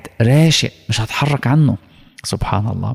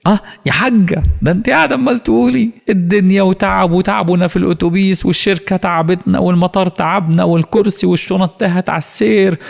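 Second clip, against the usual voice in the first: higher, lightly voiced son listing her complaints; mock his mother's grumbling with a grin; teasing son; 5 semitones higher than usual. (ابن يمازح أمه العائدة من الحج بصوت أعلى)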